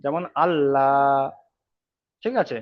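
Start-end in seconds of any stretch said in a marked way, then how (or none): 0.0-1.2 যেমন আল্লাহ drawn out slowly, lam thin like লা; slow light Allah. Shown as a demonstration. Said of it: "লা উচ্চারণ করে পড়তে হবে".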